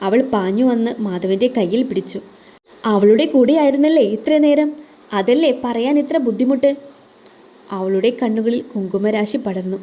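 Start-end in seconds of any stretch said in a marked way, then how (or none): 2.8-6.7 losing patience. Acted. Wife accusing her husband of being with another woman, angry. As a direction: throw the accusation at him. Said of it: "ആർദ്രയുടെ ക്ഷമ നശിച്ചു".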